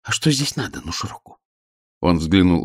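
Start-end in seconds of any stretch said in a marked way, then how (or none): 0.0-1.4 quiet question. A narrator's reading. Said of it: "Оля шёпотом спросила его".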